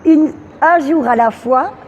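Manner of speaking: measured poem, line by line; poem recitation. Acted. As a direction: recite with a pause after each line.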